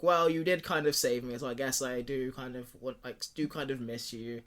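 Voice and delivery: half-hearted, reluctant concession. Retold or imitated. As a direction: admit it reluctantly, letting it sink at the end. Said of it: "It sounds, sounds reluctant".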